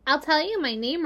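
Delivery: a hint of a baby spider; small spider voice. Spider speaks.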